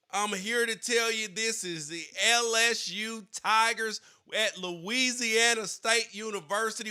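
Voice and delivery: mock Cajun twang, pumping up the crowd; mock Cajun coach impression. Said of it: "this Ed Ogeron impression".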